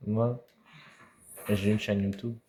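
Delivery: loud proud announcement. Acted. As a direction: shout it out proudly. Sudden loud declaration.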